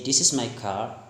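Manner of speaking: lightly attempted British accent; British-style CAR with a softened R. Shown as a demonstration. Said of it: "In British".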